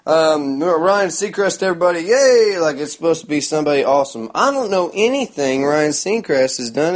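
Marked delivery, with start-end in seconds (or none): 0.1-2.6 loud, higher warm-up host voice; hyped announcer. Retold or imitated. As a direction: pump up the crowd like a cheesy host. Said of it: "they come down there like".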